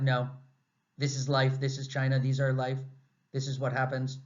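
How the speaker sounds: flat, resigned monotone; robotic resignation. Retold or imitated. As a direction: say it like a shrug. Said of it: "Just so robotic".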